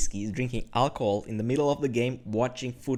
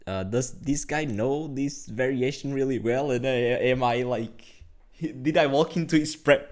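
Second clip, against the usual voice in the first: mock panic; 4 dB louder than usual. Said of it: "like, panicking".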